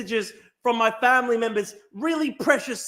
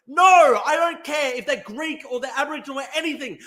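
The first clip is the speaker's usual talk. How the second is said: angry shout; 3 semitones higher than usual. Real, not acted. Furious rant at chat.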